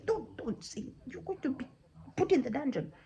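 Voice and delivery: mildly panicked parent; parents' anxious warning. Acted. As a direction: warn the child off nervously. Parents hush their children in fear.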